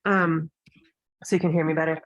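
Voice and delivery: talking through a face mask; muffled behind a face mask. Real, not acted. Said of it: "I have a mask on".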